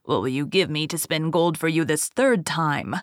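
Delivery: a touch of a scheming dwarf; sly dwarf voice. Acted. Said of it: "that dwarf came in and said".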